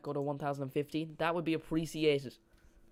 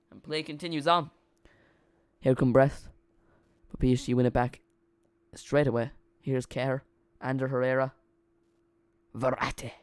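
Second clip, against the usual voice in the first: louder, level match commentary; live play-by-play; 8 dB louder than usual. Real, not acted. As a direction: call the play as it happens, projecting over plain chat.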